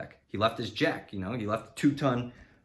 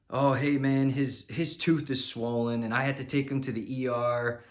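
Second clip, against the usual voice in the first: imitating the friend; 4 semitones higher than usual. Friend calling the customer to explain the ER trip, mock-casual. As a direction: play the friend breezily covering for him. Mechanic's friend calls with excuse.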